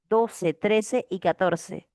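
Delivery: trece y catorce said slowly, word by word; slow dictation. Shown as a demonstration. Teacher assigning homework, slow clear dictation. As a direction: dictate it slowly for the class to note. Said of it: "teacher repeats question numbers".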